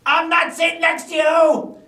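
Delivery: high mock outburst; imitated outburst. Recalling his refusal to sit by co-host, high mock protest. Quotes own earlier refusal.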